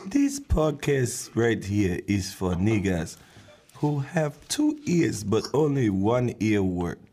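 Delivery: badly faked African accent; worst African accent. Podcaster announcing who the show is for, bad African accent. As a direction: do a deliberately poor African accent. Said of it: "That is the worst African accent ever".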